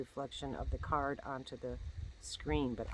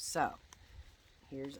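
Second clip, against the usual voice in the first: ordinary delivery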